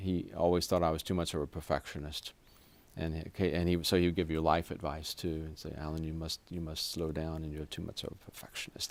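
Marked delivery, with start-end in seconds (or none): 5.8-8.9 put-on quiet German accent. Retelling a soft-spoken doctor's life advice: imitating a german accent. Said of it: "He was very good German accent still".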